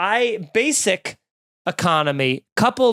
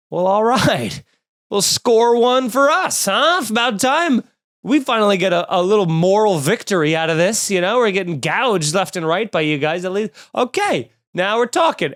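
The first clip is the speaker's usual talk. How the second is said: mock gloating; 3 semitones higher than usual. Passengers gloating at airlines.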